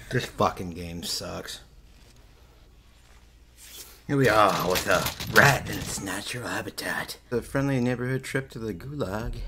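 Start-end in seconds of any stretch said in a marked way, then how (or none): 4.1-9.4 wildlife show narrator, louder; nature documentary. Pretend. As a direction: narrate a rat like a wildlife film. Mock wildlife narration over gameplay.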